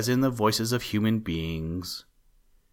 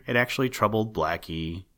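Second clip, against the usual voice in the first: actually stressed with a rise. A narrator's reading. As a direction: lean on actually. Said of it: "Yes, sir".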